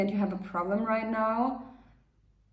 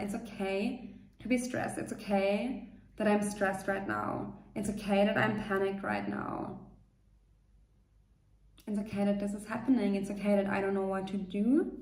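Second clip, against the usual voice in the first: gentle self-talk; 4 dB quieter than usual. Shown as a demonstration. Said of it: "You can tell yourself that".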